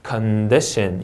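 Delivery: "condition" stressed on DI; weight on DI in "condition"; second-syllable stress. Shown as a demonstration. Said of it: "이음절 강세". ("condition"의 둘째 음절에 강세)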